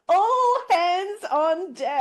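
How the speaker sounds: high, laughing through the words. Real, not acted. Friends joking about a spicy book, laughing hard. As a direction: giggle it out high.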